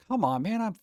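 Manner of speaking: hoarse from hours of talking; worn-out hoarse voice; sore throat. Real, not acted. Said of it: "My throat hurts".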